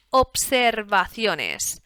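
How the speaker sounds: drawn out very slowly while typing; slow typing dictation. Shown as a demonstration. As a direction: say it slowly as the keys go. Typing the field name aloud.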